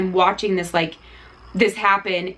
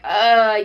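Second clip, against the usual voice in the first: imitated groan of exhaustion; fatigued groan; 5 dB louder than usual. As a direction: groan as if tiring out. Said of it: "you can tell that he's fatiguing".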